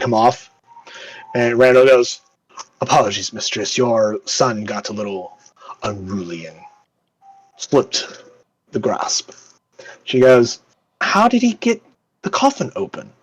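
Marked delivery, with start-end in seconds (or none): 2.8-9.3 low, measured apology; deferential servant. Acted. Randall reports to his mistress. 11.0-13.1 high-pitched lady's voice; questioning duchess. Acted.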